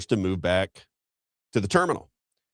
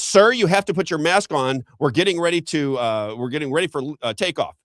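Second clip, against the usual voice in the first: higher-pitched, lightly acted flamboyant steward; flamboyant flight attendant; 7 semitones higher, 3 dB louder than usual. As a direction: imitate a flamboyant attendant giving an order. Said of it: "flamboyant guy comes down".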